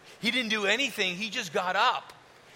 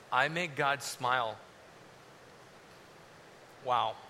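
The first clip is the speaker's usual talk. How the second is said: hushed awe; 9 semitones lower, 7 dB quieter than usual. Acted. Jesus's imagined awed thoughts.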